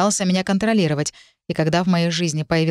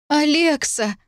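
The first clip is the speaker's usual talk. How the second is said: high tearful cry of her friend's name; crying out the name high and upset; tearful call; 9 semitones higher, slower than usual. A narrator's reading. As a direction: call out high through tears. Tearful friend calls again.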